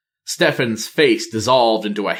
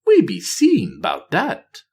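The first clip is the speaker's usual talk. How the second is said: higher, slow troll taunt; mocking troll; 9 semitones higher than usual. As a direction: sneer it back at him lightly. Bwonsamdi answers Nathanos mockingly.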